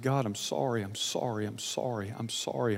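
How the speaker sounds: hushed, low, repentant plea; retold tearful apology. Preacher retelling his prayer to God after failing, hushed remorse. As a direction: repeat it softly, understated remorse. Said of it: "I sobbed".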